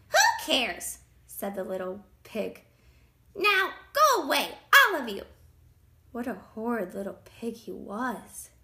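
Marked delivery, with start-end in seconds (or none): 0.1-1.0 loud, higher dismissive retort; rude pig. A narrator's reading. Pig brushes off the wolf, rude. 3.3-5.3 high, loud dismissal; rude pig shouting. A narrator's reading. Pig sends wolf and chickens off, shouting. Pig orders everyone away.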